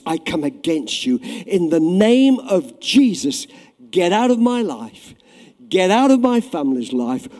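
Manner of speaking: preaching at full force; commanding rebuke. Shown as a demonstration. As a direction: drive the giant out with authority. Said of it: "try it again with a bit more gusto".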